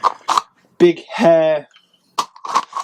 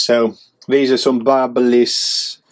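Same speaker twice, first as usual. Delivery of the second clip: silly voice; 2 semitones lower, slower than usual. Real, not acted. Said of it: "Don't know why I said it in that voice".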